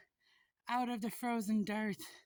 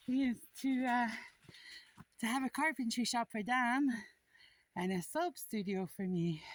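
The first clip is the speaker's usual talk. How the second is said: out of breath. Real, not acted. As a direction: still winded, short phrases. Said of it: "I'm catching my breath".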